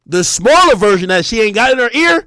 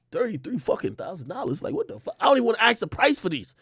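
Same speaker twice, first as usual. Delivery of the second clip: quiet horror at the price tag; inner shock; 9 dB quieter than usual. Retold or imitated. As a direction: mutter it under your breath in shock.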